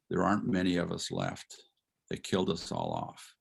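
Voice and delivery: low, subdued retelling, dropping at the end; understated sombre. Retold or imitated. Lecturer quoting a student about her slain family, sombre. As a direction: let the last phrase sink low and soft.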